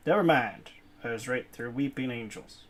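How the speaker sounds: usual speaking voice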